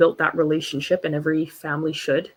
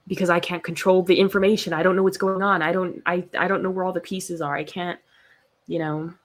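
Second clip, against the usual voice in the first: ordinary talk, nothing marked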